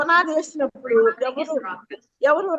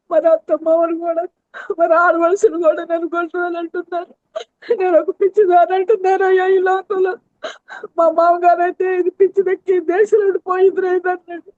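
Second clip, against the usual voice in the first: tearful prayer; 3 semitones higher than usual. Retold or imitated. Retold tearful prayer to God.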